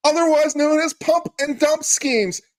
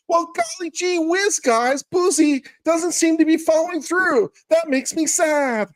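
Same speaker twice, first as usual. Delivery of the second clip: Blackleaf impression. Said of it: "saying that in Blackleaf's voice".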